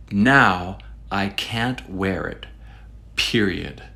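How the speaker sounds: slow, measured reading with a falling "period"; deadpan finality. Acted. Reviewer closing a complaint to readers, slow finality.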